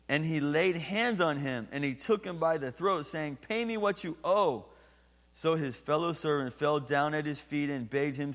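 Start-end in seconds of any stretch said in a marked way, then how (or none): 3.5-4.6 higher, louder demand for the money; angry demand. Acted. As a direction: seize him and demand payment. Servant grabs debtor by throat.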